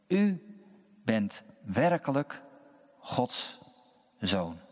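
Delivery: measured reading with long pauses between phrases; scripture reading. Acted. Minister reading the Gospel to the congregation, measured scripture reading. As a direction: read it out solemnly, phrase by phrase.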